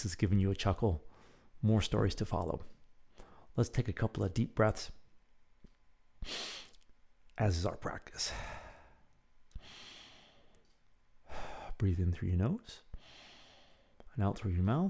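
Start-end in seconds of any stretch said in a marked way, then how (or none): 3.6-14.9 calm, unhurried instruction with long pauses; guided breathing. Acted. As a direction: meditation leader easing into the practice. Leads a breathing exercise.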